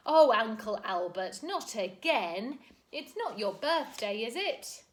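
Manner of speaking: a loud, cross scolding; crossly. A narrator's reading. Mary Poppins scolding her floating uncle, cross. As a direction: scold him like a fed-up niece. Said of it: "saying crossly".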